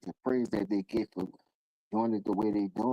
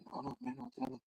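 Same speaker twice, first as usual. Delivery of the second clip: put-on pleading kid; 13 semitones higher, 12 dB quieter, faster than usual. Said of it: "And you be like".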